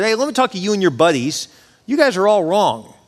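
scolding God. Retold or imitated. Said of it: "He basically gets on him".

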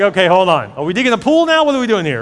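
mock panic at the excavator; alarmed homeowner.

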